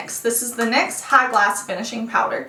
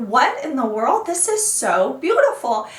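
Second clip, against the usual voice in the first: 1 gushing. Retold or imitated. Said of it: "You're like".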